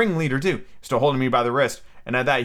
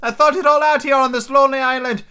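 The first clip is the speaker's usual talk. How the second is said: Ben Gunn voice; 11 semitones higher, 4 dB louder than usual. A narrator's reading. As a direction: confide like a lonely hermit.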